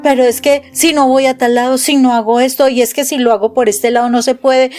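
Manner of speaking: mock anxious fretting. Preacher mimics an anxious believer with mild fretting. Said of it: "la situación de la ansiedad".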